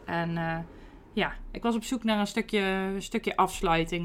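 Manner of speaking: ordinary talk, nothing marked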